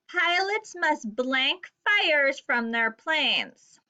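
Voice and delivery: slow, clear reading for the class to follow; slow choral read. Shown as a demonstration. Teacher reads along with students, slowly. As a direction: read slowly so kids join in. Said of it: "Will you read with me".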